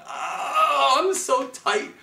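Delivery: high, loud pained cry; bow in pain. Pretend. Teacher voicing the bow in pain, crying high. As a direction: whine like an overtightened bow. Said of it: "This bow is in pain".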